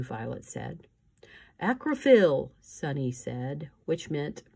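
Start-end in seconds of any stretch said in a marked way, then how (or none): 1.6-2.5 put-on high squeaky baby voice; a tiny baby squeaking a made-up word; baby squeal. Baby Sunny chiming in, high baby squeak.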